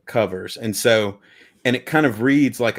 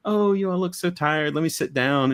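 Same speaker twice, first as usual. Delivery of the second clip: put-on no Scottish accent; 6 semitones higher than usual. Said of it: "I can't do a Scottish accent, so I won't even try".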